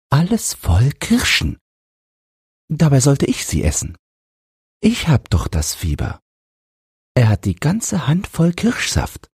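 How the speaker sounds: feverish, aggrieved high-pitched brooding; sick son fretting inwardly. A narrator's reading. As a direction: dwell on the grievance as the sick boy. Sick boy's thoughts in a story. (fiebriger Junge, klagend und hoch)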